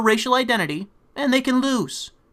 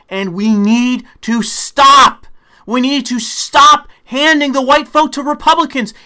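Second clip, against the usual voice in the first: angry insistence; 4 semitones higher, 5 dB louder than usual. Real, not acted. Telling his party to stop, angry and loud. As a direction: hammer the point home. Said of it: "I'm getting even more angry".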